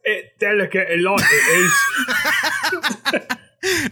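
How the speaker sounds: hammed-up British accent, pitched high; high, cartoonish British sing-out. Shown as a demonstration. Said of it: "say it in a proper British accent".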